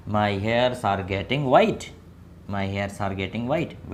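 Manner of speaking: very slow, word by word; slow model sentence. Shown as a demonstration. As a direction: drag each word for the class. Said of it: "मेरे बाल सफ़ेद हो रहे हैं".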